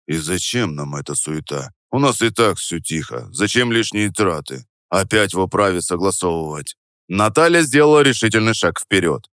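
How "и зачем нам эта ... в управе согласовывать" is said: low, weary and deflated; tired grumbling. Acted. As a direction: sigh it out, worn down. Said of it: "переспросил он устало".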